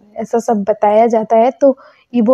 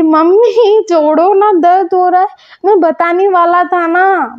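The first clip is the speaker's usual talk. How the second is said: mock pained pleading; 6 semitones higher than usual. Mother twists his ear.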